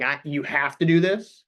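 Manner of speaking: slow, stern, serious order; too stern. Shown as a demonstration. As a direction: demand it like a strict boss.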